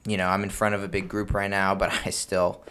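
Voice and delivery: steady, unhurried delivery with pauses; slow and confident. Shown as a demonstration. Host facing a big group, confident and slow. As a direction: speak calmly at your own pitch, unrushed. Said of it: "confident speaking in a slow tone".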